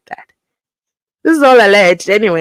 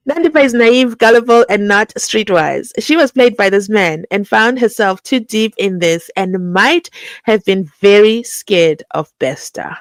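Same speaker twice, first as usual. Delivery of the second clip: emphatic re-read. Real, not acted. Host retrying the sentence for sense, emphatic re-read. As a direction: read it out firmly in one go. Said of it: "let's try it one more time".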